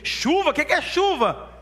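high, loud, hammed-up disbelief; baffled boy. Boys hearing Sem predict rain, incredulous. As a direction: squawk it like a kid stumped by a new word.

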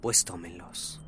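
a hint of a spectral voice from the grave; voice from beyond the grave. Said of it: "con voz de ultratumba dijo".

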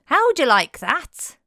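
a shouted jab in a bad Scottish accent. Prisoner taunting the policeman behind him, in a bad Scottish accent. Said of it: "my Scottish accent is terrible".

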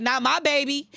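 a hint of a protective, firm voice, no laugh; firm quote. Quoting God's protective words, lightly firm. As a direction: say it steady and sure, lightly voiced. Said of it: "He be like".

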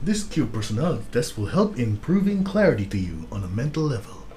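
flat, even robot voice reading the test. Pretend. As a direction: read it out like a machine. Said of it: "are you actually doing, like, a robot voice?".

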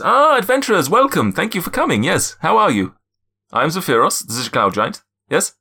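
high, loud put-on African-ish accent; hammed-up royal welcome, pitched high; Coming to America accent. GM voicing the cloud giant greeting the adventurers, put-on accent. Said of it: "an Eddie Murphy sort of Coming to America sort of vibe".

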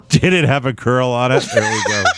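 calling it out through laughter; real laughter breaking into the question; laughing. Real, not acted. Host repeats the curl joke to the co-host, laughing.

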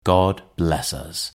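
Tiny Tim's blessing. A narrator's reading. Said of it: "as Tiny Tim observed".

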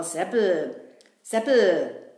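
building from plain to a loud shout. Real, not acted. Kasperl yelling at Seppel, who isn't listening. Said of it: "Was schreist du denn so".

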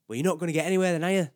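imitating a friend snapping; retold snap. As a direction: bite back at him like James did. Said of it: "James snapped at me".

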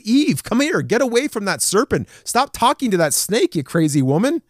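lightly acted husband urging his wife to flee; urgent mock plea to run from the snake; urgent warning. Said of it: "he should have told his wife".

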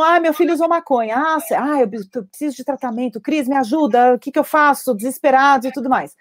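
hammed-up worried parent; desperate parent. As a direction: imitate a panicked parent asking for help. Parent voiced desperate for help.

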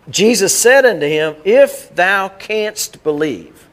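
put-on solemn, slow old-English scripture reading; King James reading. Shown as a demonstration. Preacher reading King James to the congregation, solemn and slow. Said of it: "we don't talk like that".

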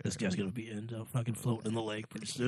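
quietly fuming, jaw clenched; through gritted teeth. Retold or imitated. Fuming at slow mechanic.

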